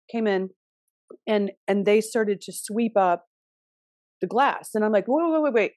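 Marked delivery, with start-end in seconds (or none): 5.1-5.7 higher, repeated plea to stop; retold flustered interruption; urgent protest. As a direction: act out halting someone mid-task. Acting out stopping someone cleaning up.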